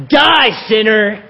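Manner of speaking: lightly voiced stern old man, slow and loud; a hint of a crickety old man wagging a finger. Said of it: "I said it in, like, an old man voice".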